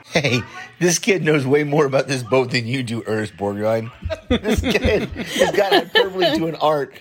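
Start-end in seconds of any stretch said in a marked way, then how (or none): 4.1-6.9 high laughing words through the giggles; can barely get it out for laughing. Real, not acted. Caller laughing at the kid's tall tale in the movie.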